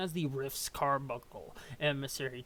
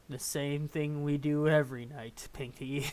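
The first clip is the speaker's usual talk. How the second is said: Brain impression; 3 dB louder than usual. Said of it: "Well, Pinky".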